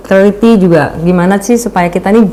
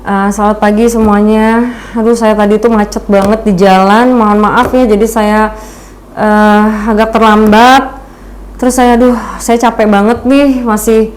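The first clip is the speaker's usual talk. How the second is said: a listless, tired presenter greeting the room; limp, low-energy opening. Shown as a demonstration. Presenter opening a talk to the audience, listless and tired. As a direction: drag through the apology with no spark. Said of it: "kalau misalnya kitanya lemes gitu terus".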